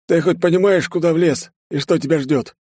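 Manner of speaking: loud, high, threatening challenge; threat. Acted. Kikuti threatens the armed intruder, loud and menacing. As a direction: warn him what's coming.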